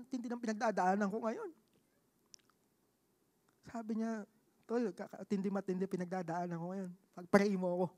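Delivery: soft, hushed, a hint of tears; quiet confession. Friend confiding his struggle to him, hushed.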